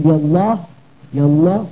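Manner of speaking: "يا الله" as everyday yalla, hamza dropped; dialect-style "يا الله", joined up; colloquial linking. Shown as a demonstration. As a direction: run "يا الله" into one casual word. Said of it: "في اللهجة العامية".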